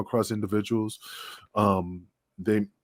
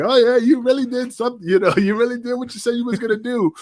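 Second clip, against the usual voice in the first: much higher, louder sarcastic jeer; mocking sarcasm; 12 semitones higher, 5 dB louder than usual. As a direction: tease Kiwi for doing nothing.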